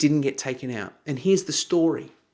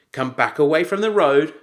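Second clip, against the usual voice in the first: raised voice; 4 dB louder than usual. Retold or imitated.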